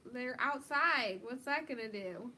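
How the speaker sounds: heated rant about skunks; worked up. Real, not acted. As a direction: get riled up over it. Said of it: "Morgan, calm down".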